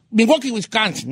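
"Milwaukee, Wisconsin" as "Mi-WOH-kee, Wis-CAN-sin"; demonstrated American pronunciation. Shown as a demonstration. Host coaching a colleague, "Milwaukee, Wisconsin" as "Mi-WOH-kee, Wis-CAN-sin". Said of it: "Se dice, a ver, di".

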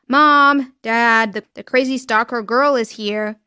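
loud call to the parents; calling shout. Acted. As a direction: yell to the family inside. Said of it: "Tony opened the door and shouted".

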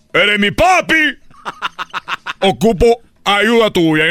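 high, slow, laughing plea. Acted. Son laughing as he begs father's image. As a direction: beg for help while laughing.

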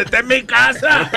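high, slow, earnest insistence; insistent swearing. Retold or imitated. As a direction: swear it's truly your house. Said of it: "Y jurando". (jurando con insistencia, aguda y lenta)

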